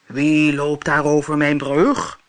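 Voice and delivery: menacing monster growl. Acted. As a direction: growl it like a troll under a bridge. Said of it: "gromde het monster".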